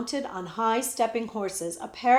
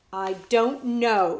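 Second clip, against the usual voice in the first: declared; 5 dB louder, slower than usual. Acted. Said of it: "declared the prince".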